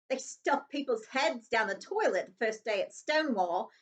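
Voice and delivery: lightly voiced bully jeering; a hint of a gloating bully; Dudley's taunt. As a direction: sneer it like a smug boy.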